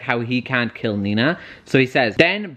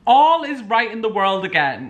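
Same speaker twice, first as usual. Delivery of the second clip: relieved excitement; 8 semitones higher than usual. Real, not acted. Relief after crisis averted.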